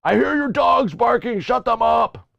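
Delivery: reading neighbor's note. Retold or imitated. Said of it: "He leaves notes on my door".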